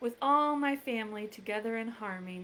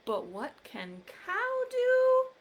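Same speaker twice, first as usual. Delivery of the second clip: excited high question; 12 semitones higher, 4 dB louder than usual. Acted. Refrain asked loudly.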